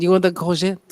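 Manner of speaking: courgette in a French accent, koor-ZHET. Shown as a demonstration. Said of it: "And you say it with a French accent".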